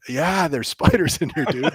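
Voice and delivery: chuckling through the words; laughing reply. Retold or imitated. To the tearful tall guy asking about spiders, laughing. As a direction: answer him while you're laughing. Answering the crying big guy.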